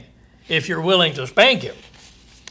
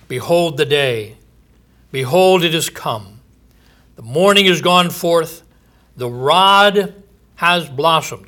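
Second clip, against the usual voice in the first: raised, ringing proclamation of doom; scripture reading; 3 dB louder than usual. Acted. Preacher proclaiming judgment to his listeners, booming. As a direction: preach the verse out to the congregation.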